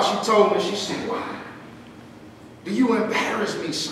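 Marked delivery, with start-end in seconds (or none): 1.1-3.9 tearful mother. Retold or imitated. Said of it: "she was crying in the car".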